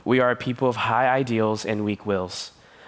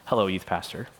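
mock shout; 5 semitones lower, 4 dB quieter than usual. Real, not acted. Crowing over a student's insight.

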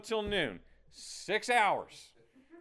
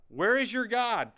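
slow, louder taunt, leaning on "Where"; mocking taunt; 4 semitones higher, 5 dB louder than usual. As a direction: sneer it from the lawn chair. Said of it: "he just mocks them".

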